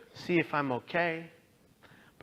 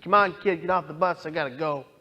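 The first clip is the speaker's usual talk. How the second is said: brusque bus driver; 2 semitones higher, 6 dB louder than usual. Retold or imitated. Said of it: "in typical San Francisco Muni fashion".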